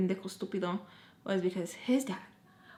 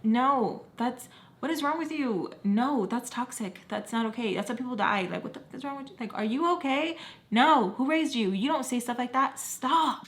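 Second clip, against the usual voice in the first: heated rant; 4 semitones higher than usual. Real, not acted. Ranting about toxic excuses.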